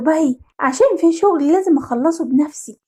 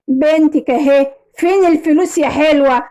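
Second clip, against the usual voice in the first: kidnapper. Acted. Kidnapper to mother at the handover, mildly menacing. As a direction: taunt her as you ask for payment. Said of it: "ولقيت راجل شكله غريب قوي".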